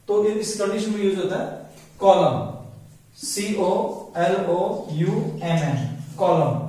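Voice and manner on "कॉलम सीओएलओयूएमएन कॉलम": "कॉलम" ending on m, no n; silent n in column. Shown as a demonstration. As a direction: spell it, then say "कॉलम" clean. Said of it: "कॉलमन नहीं बोलते हैं".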